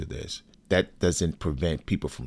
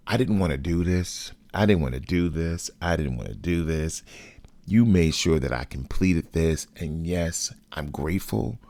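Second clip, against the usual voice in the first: mild mock yell, insistent and repetitive; retold angry yelling. Son cussing out his father at the headstone, mildly raised angry voice. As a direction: cuss him out at only slightly raised volume. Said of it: "I am literally yelling at my".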